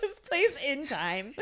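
slow, laughing through "place"; laughing repeat. Shown as a demonstration. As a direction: repeat it while cracking up. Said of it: "I said it like this".

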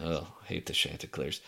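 soft, low Boston grumble; Boston accent. Pretend. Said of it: "Chanticleers in a Boston accent".

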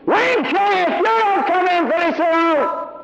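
high, threatening mother's yell; mother's third-level call. Retold or imitated. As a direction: imitate mother at the end of her patience. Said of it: "that was the third level".

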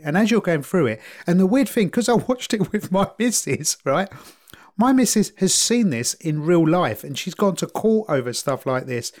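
ordinary talk, nothing marked

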